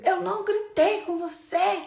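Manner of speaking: loud, high, drawn-out denial; acted angry shout. Parent yelling at a child that she didn't yell, indignant.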